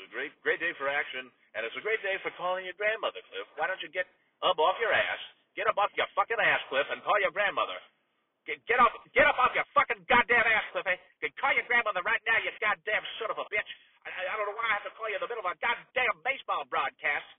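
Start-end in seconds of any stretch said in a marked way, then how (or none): 4.5-13.7 loud, high furious rant; announcer blowing his top at his nephew; angry yelling. Acted. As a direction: lose it on the air at the nephew.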